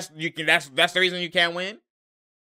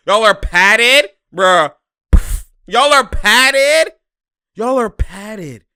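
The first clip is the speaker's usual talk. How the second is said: slow, loud, higher incredulous question; disbelieving yell; 6 semitones higher, 8 dB louder, much slower than usual. Real, not acted. Fan shouts at his losing team in disbelief.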